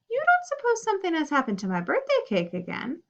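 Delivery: high, worried plea; anxious question, voice lifted. Acted. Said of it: "she said in a worried voice".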